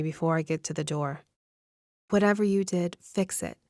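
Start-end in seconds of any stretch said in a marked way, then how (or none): 2.1-3.6 hissed warning. Acted. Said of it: "she hisses at me".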